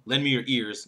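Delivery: final word "ears" picked out; stress on ears. Shown as a demonstration. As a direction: land on "ears", as opposed to hands. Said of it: "the fourth one".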